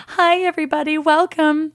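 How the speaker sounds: high, awkward hostess hello; mock performer's greeting; forced cheery greeting. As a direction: call out a too-bright welcome to a silent room. Retold greeting to a silent restaurant.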